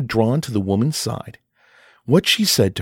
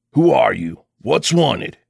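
a gruff man's challenge, louder; harsh and forbidding; 3 dB louder than usual. Acted. Gruff father challenges a stranger at his door, harsh. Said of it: "very harsh and forbidding".

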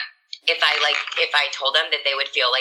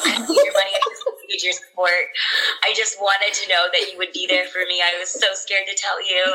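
retold crying plea; 4 semitones higher than usual. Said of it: "start crying".

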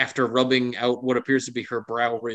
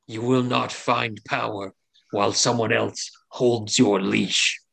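powerful tempting entity; 2 semitones lower than usual. Acted. Game master voices a powerful entity.

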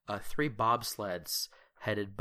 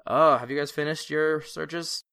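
higher, louder greeting; officer calling over; 6 semitones higher, 8 dB louder than usual. Acted. Lieutenant greeting the campers across the camp, called out. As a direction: call out cheerfully to the campfire group.

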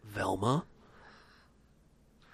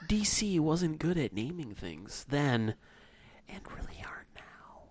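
sultry Casey Kasem. Acted. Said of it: "like a sultry Casey Kasem".

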